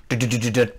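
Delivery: rapid low run of mouthed knocks; imitated knocking. Going back again to knock, imitated knocking. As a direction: knock lightly with the voice. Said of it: "that's the knocking".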